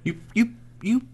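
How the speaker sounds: whispered, halting stammer; mock stunned stammer. Listener imitating the bewildered kid, whispered stammer. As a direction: whisper it as if lost for words.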